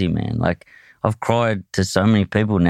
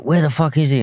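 higher-pitched mock demand from an annoyed mum; retold exasperated mum; 8 semitones higher than usual. Mum on the phone asking after her missing kid, retold exasperation. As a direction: imitate a cross mother, pitch raised.

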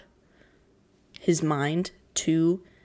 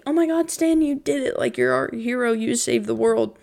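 excited praise; 5 semitones higher, 4 dB louder than usual. Retold or imitated. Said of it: "and they're like".

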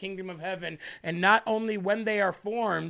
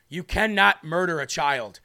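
emphatic preaching; 4 dB louder than usual. Acted. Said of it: "Let me say it one more time".

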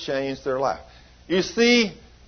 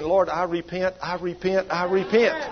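restrained retold plea, repeated in a rising chain; voice from behind. Preacher imitates the woman behind repenting, restrained pleading. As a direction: imitate a repenter piping up behind, without shouting. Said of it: "we hear this other voice over here behind saying".

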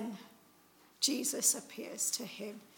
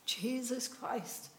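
awed confession; 4 dB quieter, slower than usual. Retold or imitated. Thomas confessing in awe.

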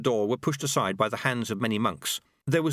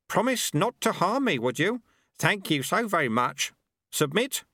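put-on a higher, sly old monk voice; old sweeper Lutze; 8 semitones higher than usual. A narrator's reading. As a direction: tease him like a cheeky old master.

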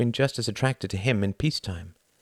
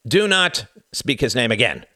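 higher, louder barked order; barked command; 5 semitones higher, 5 dB louder than usual. A narrator's reading. A Nazi interrogator barks at his captive, harsh command. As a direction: snap the order like an officer. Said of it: "barked a voice".

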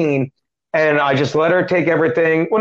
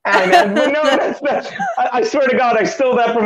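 high laughing protest, caught out; 6 semitones higher than usual. Real, not acted. Laughing as the host teases the joke. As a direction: laughs through a flustered defence.

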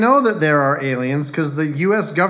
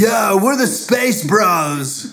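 excited; 4 semitones higher, 3 dB louder, much slower than usual. Pretend. Joking about alien band name.

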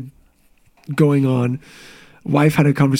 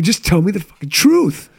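higher-pitched, imitated exasperation; retold exasperated demand; 4 semitones higher than usual. Husband retelling his plea to his wife, exasperated. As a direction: press for an answer, punching the last word.

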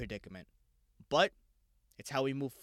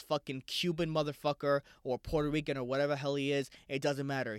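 ordinary talk

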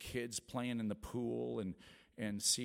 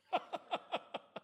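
breathless giggle. Real, not acted. Laughs at own nerves.

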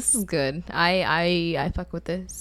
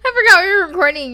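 laughing; 10 semitones higher, 7 dB louder, faster than usual. Real, not acted. Laughing burst.

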